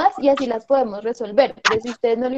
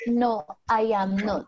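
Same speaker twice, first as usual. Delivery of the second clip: slow model answer; 3 dB quieter, slower than usual. Shown as a demonstration. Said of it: "Entonces tú me vas a decir".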